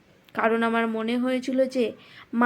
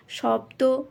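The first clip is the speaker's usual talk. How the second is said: শব্দ pressed hard with a rising pull; a child stressing শব্দ to prompt mother; heavy stress; much slower than usual. Retold or imitated. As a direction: lean hard on শব্দ as a hint. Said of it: "শব্দ দুটির ওপর অতিমাত্রায় জোর দিয়ে".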